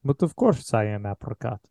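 a dead man's face speaking gently from a torso; eerie Richard. Acted. Keeper voices Richard's head.

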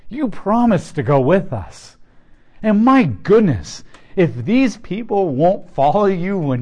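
lightly acted worried Moses asking for help; pleading Moses. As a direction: plead like a leader at his limit. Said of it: "Moses is basically saying this".

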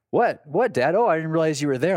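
put-on high, startled kid voice; dad imitating his distracted son, startled and high. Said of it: "he kinda snaps his head over like".

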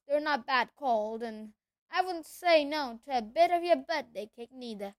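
big booming half-giant; rough country giant voice; gruff giant voice. Acted. Hagrid voice held.

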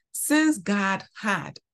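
slow, weighty "had"; "had" spoken slowly with weight; stress on had. Shown as a demonstration. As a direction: draw out "had" to underline it. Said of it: "emphasis on had".

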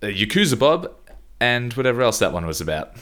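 lightly voiced well-off guy, rising at the end; breezy mock-posh reading; hint of a smug letter writer; Jared impression. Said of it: "do my best Jared accent".

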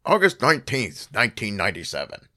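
lightly imitating a dramatic TV narrator; a weak hint of a solemn mystery host; Robert Stack voice. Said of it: "I wish I could do, like, a Robert Stack voice".

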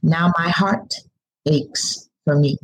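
measured spoken word recital over music; spoken word poem. Acted. Poet performs her poem on the show, measured and heartfelt. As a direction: let each line land like a performed poem.

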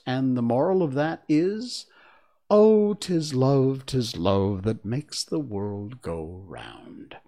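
slow sing-song moral; frail withering duchess. Acted.

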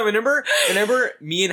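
laughing through the words. Real, not acted. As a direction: giggle while you speak. Laughing while starting story.

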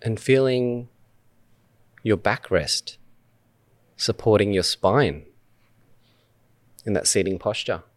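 unhurried meditation guide, long pauses between phrases; measured guided-meditation delivery with spacious silences. Acted. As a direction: lead listeners gently through breath awareness, phrase by phrase. Leads a meditation.

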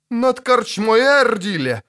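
high, drawn-out shout; crying out. A narrator's reading. Elf shouting where the spirit hovers, high drawn-out cry. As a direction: call it out slowly, pitched high. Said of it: "закричал Хириадан".

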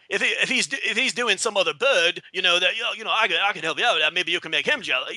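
put-on lightly mumbled Manchester accent; a hint of a cocky Mancunian cabbie chatting up a passenger; imitating a singer. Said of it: "then Liam Gallagher's always like".

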